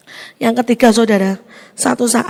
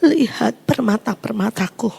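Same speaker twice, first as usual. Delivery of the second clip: gentle voice of God; 3 semitones lower, 5 dB quieter than usual. Retold or imitated. God's voice speaking softly.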